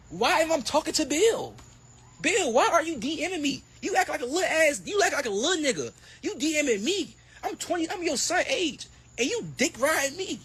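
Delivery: high-pitched mock whine at Bill; hammed-up high mock rant. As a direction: squeak it out like a bratty kid.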